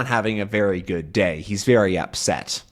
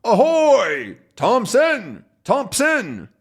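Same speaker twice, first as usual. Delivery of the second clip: mock yell; 11 semitones higher, much slower than usual. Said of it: "he yells back at them".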